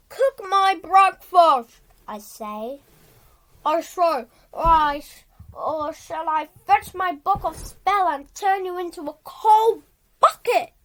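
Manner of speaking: a grumpy warlock threatening his pot, loud on the ends; angry warlock. Acted. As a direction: bark the threat at a stubborn cauldron. Warlock threatens his cold cauldron.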